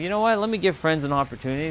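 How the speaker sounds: high, perky mock voice of his past self; mock open-minded. Streamer imitating his past self deciding to try Friends, high and perky. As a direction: pitch it up like a newly open-minded convert.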